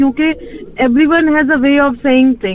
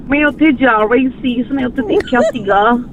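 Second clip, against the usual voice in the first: mock Anglicised Punjabi. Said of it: "लड़कियाँ ऐसे बात करती हैं".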